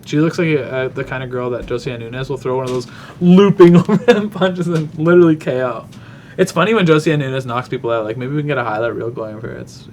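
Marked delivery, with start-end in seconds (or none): 3.2-5.9 laughing through the words, louder; cracking up while telling it; amused, half-laughing description. Real, not acted.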